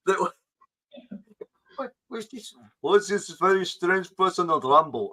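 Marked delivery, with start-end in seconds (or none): 1.8-5.1 put-on voice sliding into South African; South African accent. Host imagining a lone jungle viewer finding the stream, mock South African accent. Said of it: "Sounds South African".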